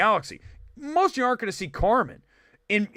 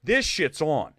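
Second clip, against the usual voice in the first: mock fighting words; 4 semitones lower than usual. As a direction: drop low, squaring up for a fight. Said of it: "I'd be like".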